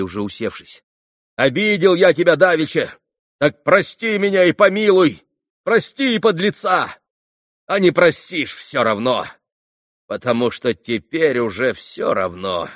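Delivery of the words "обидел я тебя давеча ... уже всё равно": громкое покаяние. A narrator's reading. Митя кричит покаяние Фене.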